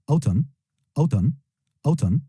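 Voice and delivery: autumn said "AW-tum", no N sounded at the end; silent N in autumn. Shown as a demonstration. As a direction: leave the final N of autumn silent. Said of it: "sans prononcer le N à la fin de autumn". (autumn sans prononcer le N final)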